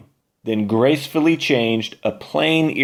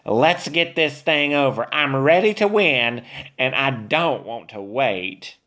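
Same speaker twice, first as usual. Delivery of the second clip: snorting witch; 4 semitones higher than usual. Acted. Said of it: "snorted Beulah".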